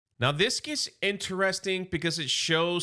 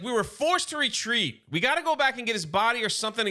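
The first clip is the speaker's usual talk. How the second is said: higher, fast, mock-urgent plea; getting upset; 6 semitones higher, faster than usual. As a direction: rush it, pleading to go back for a comrade. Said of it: "Thundercracker's getting upset".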